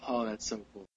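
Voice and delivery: ordinary delivery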